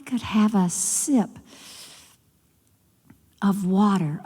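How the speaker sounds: faint, breathy whisper of a sick queen; a dying mother barely whispering to her child; weak dying queen. Acted. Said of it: "she called her oldest daughter to her".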